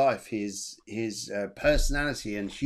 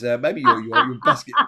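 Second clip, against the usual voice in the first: cracking up at his own joke; laughing; 2 semitones higher, 8 dB louder than usual. Real, not acted. Joking about subway multitasking.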